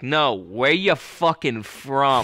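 slow, drawn-out mock demand; insistent challenge. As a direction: press the outsider, stretching each word. Mimics Boston local pressing harder.

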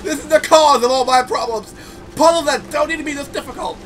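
exasperated rant. Real, not acted. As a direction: rant it out, annoyed at the puzzle. Same rant in lower voice.

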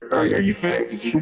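echoing voice. Pretend. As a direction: voice echoing back on itself. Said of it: "you're still echoing".

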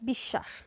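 বিশ্বাস said "bish-shash"; বিশ্বাস with long sh and silent second b; doubled consonant. Shown as a demonstration. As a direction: hold a double sh in the middle of বিশ্বাস. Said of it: "স এর দ্বিত্ব উচ্চারণ হবে".

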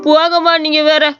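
breezy dismissive brush-off, போங்கம்மா tossed off lightly; shrugging off the aunt's complaint; casual brush-off. Acted. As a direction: wave her off offhandedly with போங்கம்மா. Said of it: "அசால்ட்டா சொல்லிட்டு போற".

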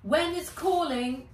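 high, loud chirpy announcement; perky little robot; robot bird voice. Acted. Fizz announces.

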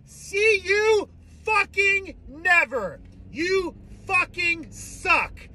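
very high, slow, stretched taunt; high mocking drawn-out farewell; taunting sing-song. Real, not acted. Taunting departing player.

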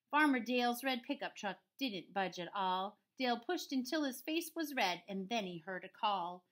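measured storybook narration; story read-aloud. A narrator's reading. Teacher reading a farm story to pupils, measured read-aloud. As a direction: tell the rhyme in an even bounce. Reads picture book to children.

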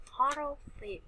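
"Horror film" with HOR leading, falling at the end; stress on first syllable. Shown as a demonstration. Teacher showing students, "Horror" stressed on its first syllable. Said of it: "chúng ta nhấn hành thứ nhất".

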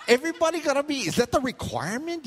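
joking at the counter, laughing loud and high; laughing question. Retold or imitated. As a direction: laugh while asking.

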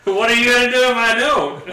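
squeaky laugh through the words. Real, not acted. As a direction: tease while cracking up. Teasing while laughing.

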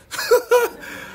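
breathy squeal of a laugh, high up; high airy laugh. Real, not acted. Laughs at own story.

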